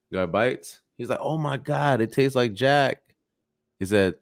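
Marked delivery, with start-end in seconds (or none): 1.2-3.0 lightly acted amazement, pitched up; pleasantly surprised joke character; amazed reaction. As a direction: play mild astonishment at a surprising taste. Joke character amazed by apple's taste.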